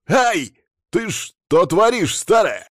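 high, loud yelp of outrage; pained, indignant yell. A narrator's reading. Stung guest protesting to old woman, indignant yell. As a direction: cry out as if stung, then protest.

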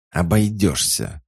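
curt, irritated refusal; snappish retort. A narrator's reading. Sorceress refuses to be sent home, snappish. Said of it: "огрызнулась магичка".

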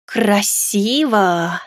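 slow drawn-out admiring word; mild impressed whistle. Acted. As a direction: stretch it like a whistle. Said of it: "присвистнула".

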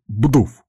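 short, punchy spoken impact; imitated thud. A narrator's reading. Narrator sounding the last of several blows, punchy thud. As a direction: drop it in like a heavy hit.

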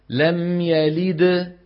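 slow لم يلد, the final د of يلد bounced clearly with nothing after it; drawn-out لم يلد ending on a firm echoing د; qalqala demo. Shown as a demonstration. Teacher demonstrating major qalqala to students, slowly. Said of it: "اسمعوا".

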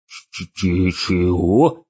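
frightened stutter. Acted. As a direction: stammer the word out. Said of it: "заикаясь".

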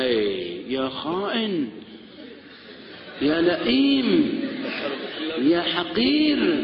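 slow, drawn-out hammed-up scolding of a cheating husband; mock angry wife. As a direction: drag out each insult like an outraged wife. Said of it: "بدون تمثيل".

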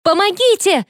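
high desperate cry; high cry for help from the toilet stall. A narrator's reading. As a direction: scream for help with your head held down. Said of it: "крикнула я".

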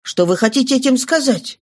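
put-on impassioned young man, rising with feeling; Marius overflowing. A narrator's reading. Marius tells Cosette what Valjean did, impassioned. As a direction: pour out his gratitude to Cosette.

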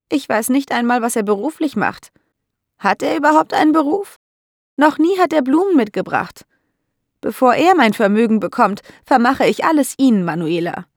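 put-on a fussy old lady getting worked up; indignant old landlady. (alte Dame, hoch und lauter, empört)

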